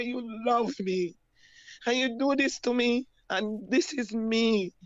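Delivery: high, pained, accusing voice; a wounded cry of disbelief at him; retelling the heartbroken confrontation, voice pitched high; distraught plea. Retold or imitated. Confronting her abuser, retold.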